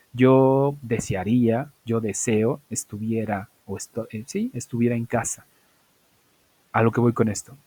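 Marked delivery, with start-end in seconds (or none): 0.1-5.5 slow translation. Shown as a demonstration. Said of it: "Ellos dicen".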